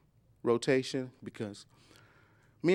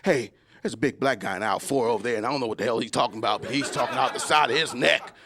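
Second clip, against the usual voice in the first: mock bystander; 4 semitones lower than usual. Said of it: "what those people were saying".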